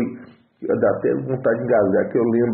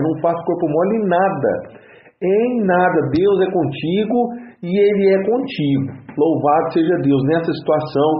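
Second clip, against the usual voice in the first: preaching exhortation; 2 semitones higher than usual. Real, not acted. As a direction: urge the brothers with fervour. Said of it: "dessa entonação".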